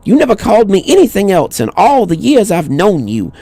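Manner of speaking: put-on high old woman voice, a little sharper; insistent old woman. A narrator's reading. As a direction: correct him firmly, then soften. Old woman insists on her name.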